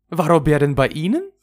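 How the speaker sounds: loud, high disbelief; astonished question. Acted. Friend astonished by the news. (laut und erstaunt nachfragend)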